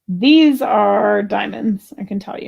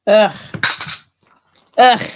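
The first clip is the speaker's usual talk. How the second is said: disgusted ugh; 5 dB louder than usual. Real, not acted. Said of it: "excited to disgusted".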